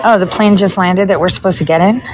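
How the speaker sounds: ordinary talk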